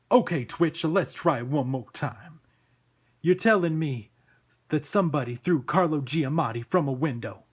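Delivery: loud, incredulous police boss; exasperated cop Sam. Acted. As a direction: bellow it like a fed-up New York cop.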